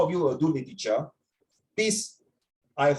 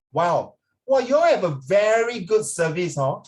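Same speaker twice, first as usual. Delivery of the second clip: sarcastic. Retold or imitated. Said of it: "you can tell that I'm very sarcastic".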